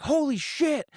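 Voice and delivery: startled yelp. Retold or imitated. Man startled by Rufus appearing, high startled yelp. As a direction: jump out of your skin.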